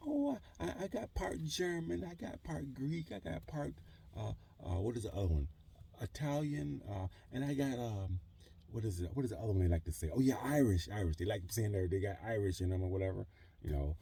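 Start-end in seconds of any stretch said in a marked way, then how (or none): 0.1-11.2 mocking white person. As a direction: parody someone proudly listing ancestry. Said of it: "they're like".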